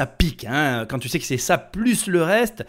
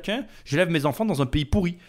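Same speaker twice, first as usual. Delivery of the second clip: mock-cheerful sarcasm, pitch climbing midway; sick irony; 3 semitones higher than usual. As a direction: play someone ironically delighted with a rotten life. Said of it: "c'est un petit peu de l'ironie malsaine". (ironie malsaine, faussement enjouée)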